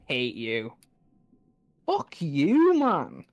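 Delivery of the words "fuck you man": much higher, louder shout; angry shout. Real, not acted. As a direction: yell it at the game. Raging at boss attack.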